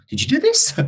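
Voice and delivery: high, laughing mock question. Real, not acted. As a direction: laugh it out in disbelief. Mocking question to sympathizer.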